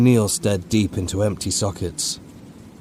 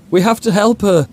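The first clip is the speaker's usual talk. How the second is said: put-on high, pleading cry like a frightened child; desperate childlike plea; begging like a child; 13 semitones higher, 8 dB louder than usual. A narrator's reading. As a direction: beg for help like a little boy. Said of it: "he begged like a child".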